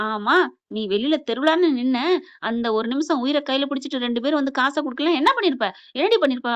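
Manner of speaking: mild mock yell, pressing questions; retold scolding shout. Husband rebukes his wife over the money, mildly shouted. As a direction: scold without fully shouting. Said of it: "அப்படின்னு கத்துறாங்க".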